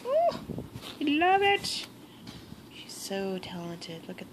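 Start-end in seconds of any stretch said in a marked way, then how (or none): 0.1-1.9 high, excited squeal of love; thrilled gift reaction; gushing delight. Real, not acted. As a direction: let the joy burst out high. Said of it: "I get all aggressive".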